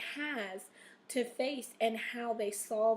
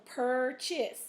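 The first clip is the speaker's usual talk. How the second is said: "purchase" slowly, stressing PUR; teacher showing the stress in PUR-chase; stress on first syllable. Shown as a demonstration. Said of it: "where is the stress? Where the U R is".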